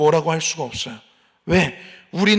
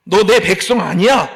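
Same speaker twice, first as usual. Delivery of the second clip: God's rebuke; 7 dB louder than usual. Retold or imitated. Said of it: "라고 하십니다".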